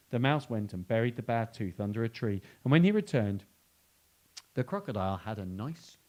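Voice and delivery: put-on lively read-aloud for children; animated picture-book reading; storybook narration. A narrator's reading. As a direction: tell it like a bedtime story, with emphasis.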